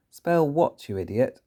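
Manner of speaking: angry headmistress. Acted. Trunchbull yelling at pupil.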